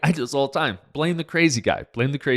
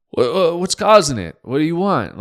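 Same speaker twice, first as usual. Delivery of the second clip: exasperated retort; 7 semitones higher, 7 dB louder than usual. Retold or imitated. Doctor retorting to fever question.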